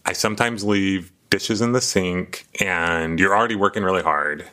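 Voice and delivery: slow, careful listener mirroring a complaint; emotional reflecting back. Acted. Husband repeating his wife's complaint back, emotional. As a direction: say it back slowly, with feeling. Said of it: "See, I'm even getting emotional".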